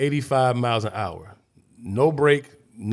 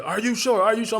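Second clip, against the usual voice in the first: rescuers checking; 9 semitones higher than usual. Retold or imitated. Rescuers doubting the count.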